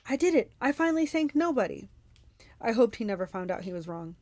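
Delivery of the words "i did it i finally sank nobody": loud, high gloating yell; triumphant monster crowing; roaring in triumph. A narrator's reading. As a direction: roar it out victoriously. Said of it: "the Cyclops roaring in triumph".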